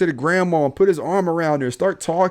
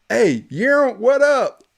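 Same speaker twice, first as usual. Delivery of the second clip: "Hey, Aaron, what up?" called out higher and louder, with full swagger; confident greeting; 8 semitones higher, 3 dB louder, slower than usual. Retold or imitated. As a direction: lean out the window and own it. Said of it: "You gotta say it with confidence".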